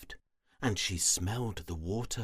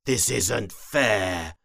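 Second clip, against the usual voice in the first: gurgling swamp creature; 6 dB louder, slower than usual. Acted. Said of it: "He gurgled and groaned".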